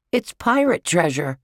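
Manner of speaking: put-on high-pitched little-boy glee; excited yell. A narrator's reading. Brian boasts to his big brother, excited yell. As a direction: announce treasure like a thrilled child. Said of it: "yelled Brian".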